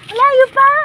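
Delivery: high, loud laugh through the words. Real, not acted. To the viewers, still far to walk, laughing. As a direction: laugh it out in disbelief.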